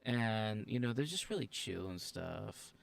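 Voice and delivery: slow flat monotone voice. Shown as a demonstration. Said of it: "they just talk very, like, monotonely".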